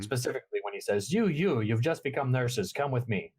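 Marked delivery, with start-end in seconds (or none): 1.1-3.3 McCoy line. Retold or imitated. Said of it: "a very McCoy line".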